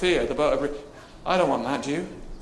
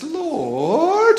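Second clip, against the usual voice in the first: high shout of Lord; high, loud call of Lord; Peter calling out; 12 semitones higher, 7 dB louder than usual. Retold or imitated. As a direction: cry out to the Lord across the water. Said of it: "He says".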